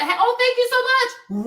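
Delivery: high, slow gushing thank you; sugary thanks. Retold or imitated. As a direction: lay it on sweet to get away. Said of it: "you just said".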